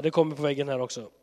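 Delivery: ordinary delivery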